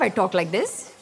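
thick Indian accent for business hours; nine-to-five voice. Shown as a demonstration. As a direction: put on the Indian accent for the customers. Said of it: "From nine to five".

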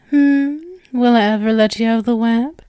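a lightly voiced doting spider captor, sweetly menacing; possessive spider captor. Arachne partner feeding her bound human, lightly voiced doting menace. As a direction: coo over the captive like a smug owner.

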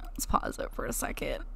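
whispered aside to viewers. Real, not acted. Aside while playing.

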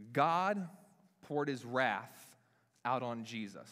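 quoting a well-worn saying with weight; solemn quote. Retold or imitated. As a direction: intone it like a familiar church phrase, slow on "poured his wrath". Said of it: "we say".

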